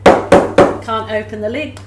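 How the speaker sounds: straining against a stuck lid; loud with effort, slow; opening a stuck jar. Real, not acted. Struggling to open paint lid.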